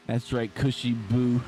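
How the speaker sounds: laughing. Real, not acted. Laughing at co-host's nickname.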